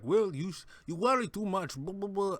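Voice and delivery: a loose attempt at Mikkelsen's Danish accent; Mads Mikkelsen accent. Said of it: "I can't do an impersonation of Mads Mikkelsen's accent".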